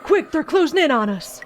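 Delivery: high, loud battle yell; battle cry. Acted. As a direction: roar the charge.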